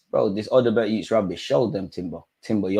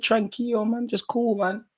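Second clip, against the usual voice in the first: mock calm advice; 11 semitones higher, 8 dB quieter than usual. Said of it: "This is what I said".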